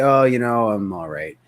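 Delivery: a lightly acted down-beat prospect; low-energy reply. Shown as a demonstration. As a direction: mimic a tired prospect's flat answer. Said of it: "slightly above their tone".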